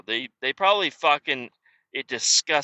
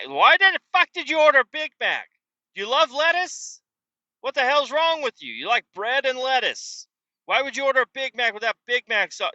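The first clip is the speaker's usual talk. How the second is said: incredulous retort; 10 semitones higher than usual. Pretend. Worker imagining yelling back at a customer, incredulous. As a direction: scoff at the customer in disbelief.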